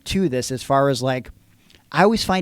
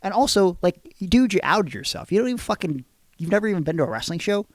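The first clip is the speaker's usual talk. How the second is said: offended and indignant; 5 semitones higher than usual. Real, not acted. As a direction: push back hard, indignant. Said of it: "I'm pretty offended".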